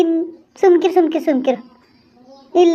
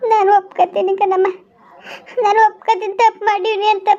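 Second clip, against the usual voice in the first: higher, tearful pleading admission; tearful confession; 5 semitones higher than usual. Acted. Young wife admitting her mistake to the older woman, tearful. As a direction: confess through rising tears. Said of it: "ಅಳ್ಬೇಡ ಸುಮ್ಕಿರು ನೀನು".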